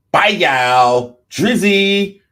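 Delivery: hammed-up shouted goodbye, voice jumping high; triumphant mock sign-off. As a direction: yell it out like a star leaving the stage. Mock rapper signing off triumphantly.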